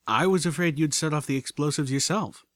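a touch of embarrassed apology; sheepish. Acted. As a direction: own up a little sheepishly.

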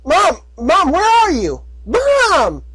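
high frantic calls for mom; calling out. Acted. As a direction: shout into the rubble, desperate. Calling for mom in collapsing barn.

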